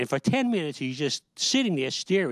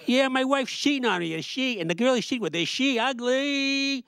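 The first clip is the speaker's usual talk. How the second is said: mock wife voice; 9 semitones higher than usual. A cheated wife asking about the other woman, high mock voice. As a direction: squeak it out like a nosy wife.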